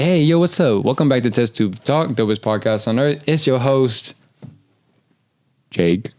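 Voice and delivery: robotic podcast host intro; automated Siri voice. Pretend. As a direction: announce it like a male Siri. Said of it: "You sound like an automated Siri".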